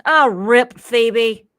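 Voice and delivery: loud, slow, drawn-out imitation; high mock lament, stretched out; goofy son. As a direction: imitate a goofy son's overdone condolence. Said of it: "He's a little goofy".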